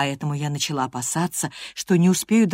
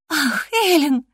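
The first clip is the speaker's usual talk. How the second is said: put-on bright girlish cry, much higher; girl greets her nurse, cheerful and much higher; cheerful exclamation; 11 semitones higher, 3 dB louder, slower than usual. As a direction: call out gladly to your nurse. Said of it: "весело воскликнула она".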